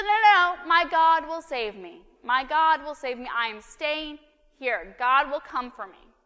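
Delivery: loud, high, insistent refusal; stubborn flood victim refusing help, loud and high; stubborn believer. Acted. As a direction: cry out no like nothing could move him. Man refuses boat rescue.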